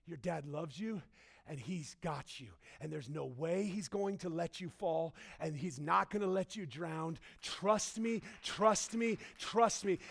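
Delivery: put-on calm a scared child on the edge; reassuring dad. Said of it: "hear me say this".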